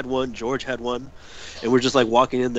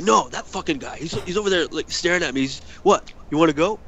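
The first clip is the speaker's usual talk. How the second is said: retold belligerence; 4 semitones higher than usual. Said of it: "wants to start a fight with this guy".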